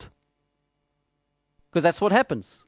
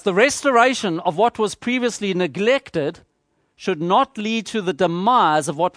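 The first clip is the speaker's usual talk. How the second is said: slow, weighty statement. Shown as a demonstration. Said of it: "let me take those two sides".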